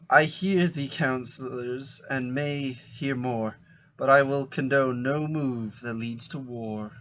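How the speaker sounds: slow, measured character reading; unhurried theatrical recitation; mock-Shakespeare stage reading. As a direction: deliver archaic lines with deliberate weight. Reads a character's script lines.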